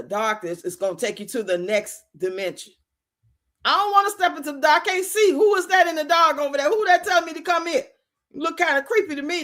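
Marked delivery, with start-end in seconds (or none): 3.6-9.4 mock nervous. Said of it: "That's what I'ma be thinking".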